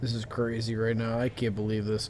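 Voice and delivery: put-on getting drunker. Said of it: "I'm so sh-, wasted right now".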